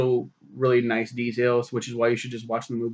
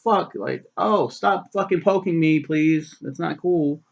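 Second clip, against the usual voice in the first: higher mock fish pleading; 5 semitones higher, slower than usual. Poked fish begging the customer to stop. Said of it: "you're just like".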